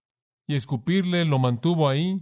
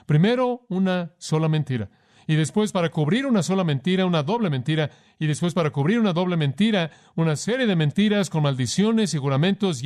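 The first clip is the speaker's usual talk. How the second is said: building emphasis; 4 semitones higher than usual. Real, not acted. Preacher builds lie escalation.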